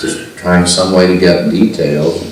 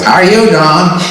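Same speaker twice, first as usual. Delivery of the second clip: much higher and louder, a cheery booming hello from a Texan boss; loud cheery greeting; 14 semitones higher, 5 dB louder than usual. Retold or imitated. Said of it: "loud, cheery voice".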